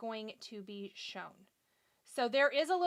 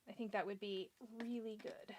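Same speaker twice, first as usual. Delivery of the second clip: whispering; 10 dB quieter than usual. Real, not acted. Muttering an aside to herself.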